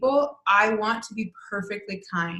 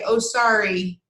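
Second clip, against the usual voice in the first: hasty, mildly louder brush-off apology; weak excuse; 4 dB louder than usual. Retold or imitated. Teacher imitating her own quick apology, brushing it off. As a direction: rush the sorry to skip the talk. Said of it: "really weak excuse".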